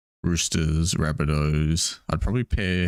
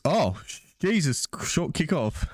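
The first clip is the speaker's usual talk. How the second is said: exasperated groan; 10 semitones higher, slower than usual. Pretend. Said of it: "you're gonna be stuck with that".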